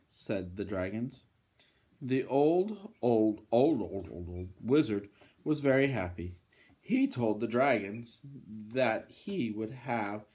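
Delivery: lively, emphatic bedtime-story reading; storybook voice with punched key words; children's story narration. Acted. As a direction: read to little ones with big swings in tune.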